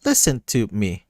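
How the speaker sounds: a lightly voiced glitching AI pleading for help; a hint of a frightened robot, stammering on its words. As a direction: play a broken program that stutters and begs. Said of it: "you do quite the robot voice".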